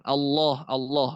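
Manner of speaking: "Allah" said as "Alloh" with a full o; heavy Allah. Shown as a demonstration. Teacher giving the thick Allah as an example. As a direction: darken the a of "Allah" to o. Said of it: "ada huruf yang ada o-oan".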